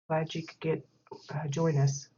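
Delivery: sleepy, stumbling over words; drowsy, barely awake; half asleep. Real, not acted. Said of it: "I'm, like, still half asleep".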